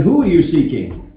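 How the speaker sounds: "Who" stressed against the rest, falling question; emphatic "Who", then a falling tune. Acted. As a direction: punch "Who" to correct a what. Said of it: "He didn't say what".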